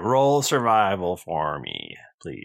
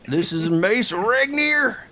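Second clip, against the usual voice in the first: awed question; 11 semitones higher, slower than usual. Acted. Barry awed by mace.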